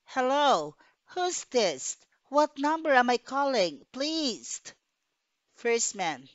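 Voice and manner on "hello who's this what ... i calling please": higher and louder, demanding into the phone; louder, imperious. A narrator's reading. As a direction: command the operator, imperious. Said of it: "louder and more imperious to phone".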